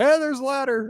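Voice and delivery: high-pitched mock eagerness; eager discovery. Host imagining himself grabbing the old ladder, mock eager. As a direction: call it out like a playful, heedless find.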